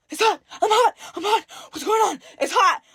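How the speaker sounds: high, crying panic; distressed whimpering. Retold or imitated. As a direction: whine in burning pain. Witch burning, cries out.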